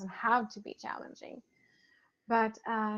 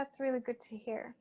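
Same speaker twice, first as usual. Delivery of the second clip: whispered, barely voiced; hushed grateful whisper; soft whisper; 8 dB quieter than usual. Real, not acted. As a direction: breathe the thanks out softly. Touched thanks to listeners.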